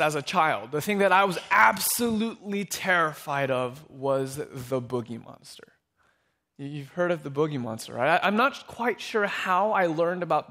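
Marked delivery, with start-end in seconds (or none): 4.4-5.7 slow, spooky whisper; hushed reveal. Acted. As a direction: drop to a drawn-out, suspenseful whisper. Dramatic reveal of childhood fear.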